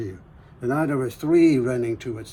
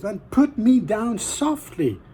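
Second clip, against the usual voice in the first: palm tree's request; 9 semitones higher, 3 dB louder than usual. Acted. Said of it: "said the palm tree again".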